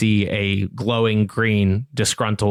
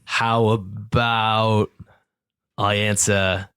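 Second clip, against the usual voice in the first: shifty bargaining; slower than usual. Acted. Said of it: "he goes".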